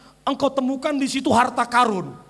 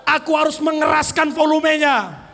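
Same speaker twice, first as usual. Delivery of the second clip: firm, raised voice; loud declaration. Shown as a demonstration. Preacher leads congregation in loud declaration. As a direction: proclaim it boldly.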